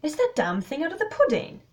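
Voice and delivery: high, loud exclamation; astonished cry. A narrator's reading. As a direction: cry out in amazement. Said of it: "he cried".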